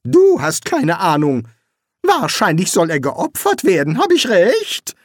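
sharp retort. A narrator's reading. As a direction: argue back sharply, rising at the end. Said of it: "widersprach Rincewind scharf".

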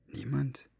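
breathless, incredulous whisper of Niemand; whispered disbelief. A narrator's reading. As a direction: hiss Niemand as a shocked question. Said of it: "sah Fenoglio so anklagend an".

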